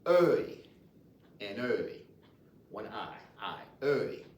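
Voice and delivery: "œil" said slowly and repeated; Louisiana French pronunciation. Shown as a demonstration. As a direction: model "œil" for beginners. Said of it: "is called œil".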